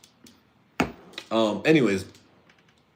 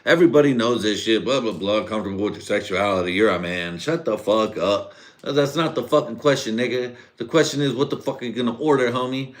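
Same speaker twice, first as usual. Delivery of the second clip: retold angry yell; 4 semitones higher, 4 dB louder than usual. Telling off the new coworker at work, angry yell. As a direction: bark it down at the new guy. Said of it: "And I was like".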